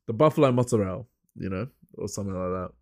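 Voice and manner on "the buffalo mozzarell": mock Italian "mozzarella" with the ending cut short; Italian-style pronunciation. Shown as a demonstration. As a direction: say "mozzarella" as an Italian-American would. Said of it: "I say the, the".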